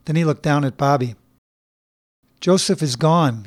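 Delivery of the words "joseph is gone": soft. Acted. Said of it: "he said softly".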